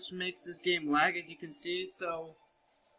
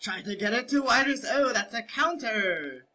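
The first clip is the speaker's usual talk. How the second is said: higher-pitched hearty pirate growl; 4 semitones higher than usual. Acted. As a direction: ham it up like a sea captain. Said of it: "I will rise the Jolly Roger".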